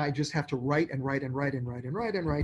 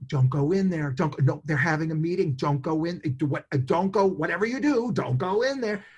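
urgent warning; 4 dB louder than usual. Retold or imitated. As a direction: warn someone off insistently, mimicking their urgency. Retold frantic warning from coworker.

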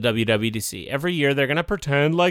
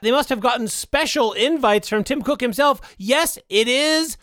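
eager movie pitch; 3 semitones higher than usual. Acted. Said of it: "Imagine this. The camera zooms".

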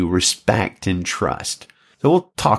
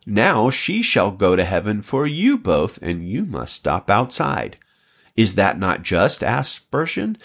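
put-on expressive read-aloud of an old preacher's story; sermon reading; 2 semitones higher than usual. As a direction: read it as a story turning into exhortation. Reads a quoted sermon.

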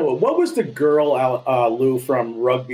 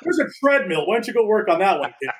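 mock taunt; 6 semitones higher than usual. Director mocks him.

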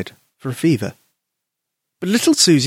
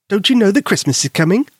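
Albert voice; 8 semitones higher than usual. Acted. Albert cheers Susie.

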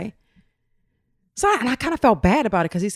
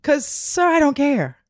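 mock dismissal; 9 semitones higher, slower than usual. Real, not acted. Dismissing the guy.

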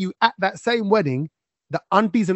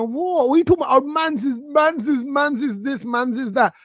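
much higher put-on cousin voice; mock London slang twang; 7 semitones higher, slower than usual. Host mimicking cousins answering his complaint, high mock London twang. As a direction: imitate a teenager's London twang in a high pitch. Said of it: "suddenly have developed this London twang".

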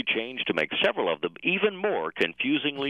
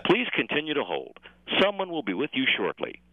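phone menu voice; 3 semitones higher than usual. Acted. Parody phone menu recording.

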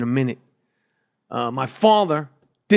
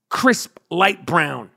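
slow savoring; much slower than usual. Acted. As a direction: draw out crisp, light brown very slowly. Savoring his ideal tan.

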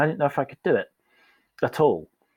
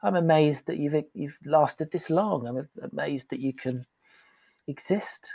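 higher, slow, gently amazed; sympathetic awe; 5 semitones higher, slower than usual. Retold or imitated. Coach to struggling colleague, amazed and kind. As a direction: reassure them warmly. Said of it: "I'd be like".

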